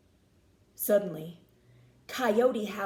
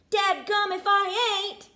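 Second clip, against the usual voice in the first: higher, louder proud cry; proud exclaim; 9 semitones higher, 6 dB louder than usual. A narrator's reading. Danny confirming he's the star, loud proud cry. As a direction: say it proud and bold.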